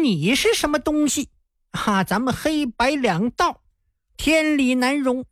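high-pitched mock indignation; boastfully re-enacted righteous telling-off; retold rebuff. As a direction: act out scornfully turning down an offer. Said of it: "让我给撅回去了".

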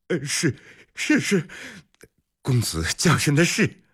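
high, halting stammer; flustered servant. A narrator's reading. Servant answering the young master's rebuke, flustered stammer.

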